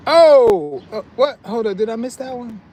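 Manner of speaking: surprised. Real, not acted. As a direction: caught off guard, voice jumps up. Suddenly spots a missed message.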